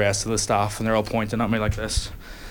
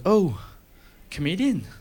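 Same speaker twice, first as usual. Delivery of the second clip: high, gushing excited doctor voice; 6 semitones higher than usual. Retold or imitated. Doctor gushes to the comedian, high and excited. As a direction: gush like a starstruck fan.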